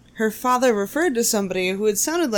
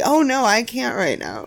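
casual, matter-of-fact; 3 semitones higher than usual. Retold or imitated. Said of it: "very casually and matter-of-factly".

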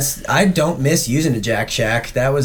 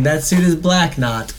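Borat impression. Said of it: "Just like the Borat".

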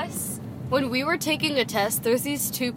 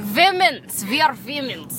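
put-on Russian accent. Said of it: "Joanne speaking in a Russian accent".

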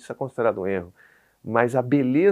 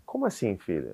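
uneasy, soft question; 3 semitones lower, 6 dB quieter than usual. Retold or imitated. Dad bracing for his son's answer, softly uneasy. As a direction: ask gently, caught out. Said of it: "você já fica assim".

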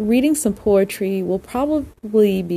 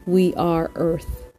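measured recital with pauses between lines; poem reading. Real, not acted. Host reads a poem to listeners to unwind, measured poem reading. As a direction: read verse deliberately, leaning on each opening word.

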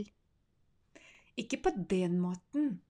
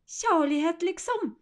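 suspicious; 8 semitones higher, 7 dB louder, slower than usual. Acted. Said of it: "sier han mistenksomt".

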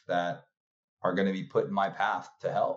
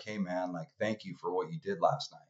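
soft, lowered thank-you; tearful thanks; 2 semitones lower, 7 dB quieter than usual. Retold or imitated. Grateful man thanking him, quiet and tearful. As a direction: quietly voice a man near tears. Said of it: "he had tears in his eyes".

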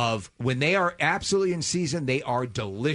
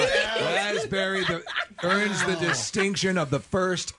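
laughing; 3 semitones higher, slower than usual. Real, not acted. Announcing raspberry spat out, laughing.

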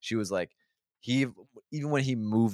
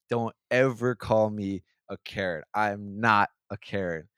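slow, firm retold warning, stressing EVER and NOT; stone cold; slower than usual. Woman warning the comic who called her Karen, stone cold. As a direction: imitate a stone-cold telling-off, word by word. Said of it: "stone cold".

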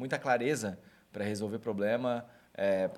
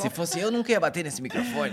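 laughing tease; 8 semitones higher, 5 dB louder than usual. Real, not acted. Teasing a mic bump.

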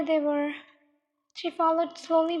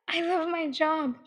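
stammering fear; 2 semitones higher than usual. Acted. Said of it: "Kenny stammered".

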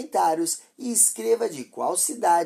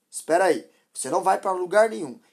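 forceful; 3 semitones higher, 6 dB louder, faster than usual. Acted. Driver stops the mother.

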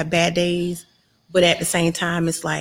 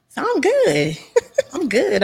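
laughing; 8 semitones higher than usual. Real, not acted. Guest laughing about her job.

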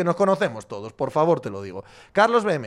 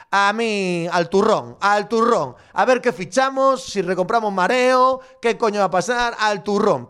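mock rant; 3 semitones higher, 4 dB louder than usual. A fan ranting at the owners to get to the point, louder. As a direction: demand it straight out.

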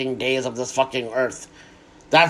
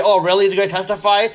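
mock surprise; 4 semitones higher, 3 dB louder than usual. Real, not acted. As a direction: fake astonishment, higher and louder. Sarcastic reaction to news.

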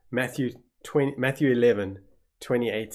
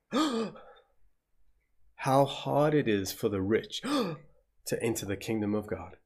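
gasping in shock; 3 dB quieter than usual. Acted. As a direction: gasp the words out, stunned. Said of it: "They gasped".

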